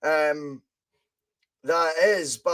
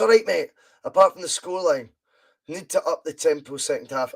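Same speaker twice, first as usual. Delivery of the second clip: a hint of a Martin O'Neill voice, lightly done; lightly imitating Martin O'Neill's manager talk; half-hearted take on a Northern Irish manager; Martin O'Neill impression. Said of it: "just the sound of Martin O'Neill".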